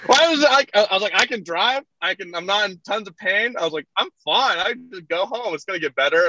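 high-pitched, laughing retelling; giggly admission. Real, not acted. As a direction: laugh through the self-mockery. Guest laughing at own past bravado.

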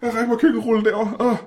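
high, stretched-out revulsion; disgusted. Acted. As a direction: squeal it with disgust. Disgusted by goo on neck.

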